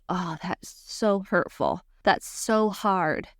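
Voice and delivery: slow, drawn-out empathy; gently mirror the hurt, stretching the words; empathetic mirroring. Shown as a demonstration. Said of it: "I'm mirroring back".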